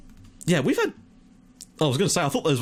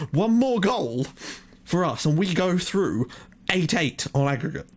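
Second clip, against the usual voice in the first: hopeful excitement; 4 semitones higher than usual. Real, not acted. Needing one more goal.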